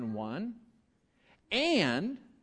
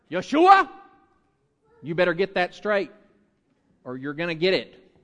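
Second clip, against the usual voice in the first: scolding parent; 8 dB louder than usual. Pretend. Pretend parent warning child, loud hammed-up scolding. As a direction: scold the kid in a mock threat. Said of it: "None of that works".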